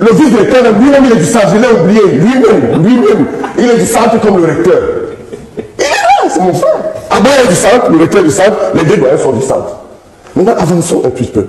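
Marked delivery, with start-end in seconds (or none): 0.0-9.8 real excited outburst. Real, not acted. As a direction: argue it excitedly, pitch soaring. Triomphe en débat animé. (exclamation exaltée, voix haut perchée)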